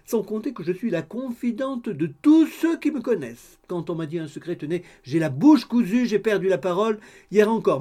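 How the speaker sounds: high, loud, bustling chatterbox; gossipy landlady. A narrator's reading. Landlady boasting of her discretion to the bride, high and eager. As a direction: reassure her with eager self-important prattle.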